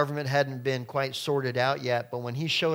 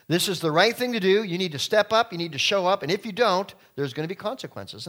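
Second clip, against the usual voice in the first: rallying call; 5 semitones higher, 5 dB louder than usual. Acted. Preaching Saul's rallying call.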